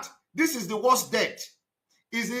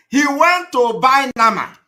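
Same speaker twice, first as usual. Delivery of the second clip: louder, higher, jabbing at "went"; loud mocking; 5 semitones higher, 9 dB louder than usual. Real, not acted. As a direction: call it out loud, scornful. Mocking the victim's errand.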